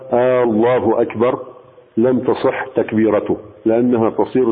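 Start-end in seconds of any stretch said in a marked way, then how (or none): 0.1-1.4 آه الله أكبر with a long آه at the start, rising; drawn-out hamza. Shown as a demonstration. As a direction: draw out the hamza of آه الله أكبر so it sounds like a question. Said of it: "فإن قال". (آه الله أكبر بمد الهمزة ونبرة استفهام)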